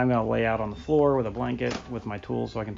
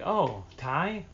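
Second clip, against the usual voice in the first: higher, questioning imitation of a customer; puzzled customer; 5 semitones higher than usual. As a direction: mishear the name, asking back. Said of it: "And they're like".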